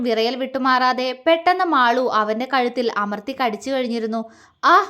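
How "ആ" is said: a short pained "aah" as if bitten; sharp cry of pain. Acted. Bitten on the neck, he yelps in pain. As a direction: yelp at a sudden bite. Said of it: "Vinod വേദനയോടെ ശബ്ദമുണ്ടാക്കി".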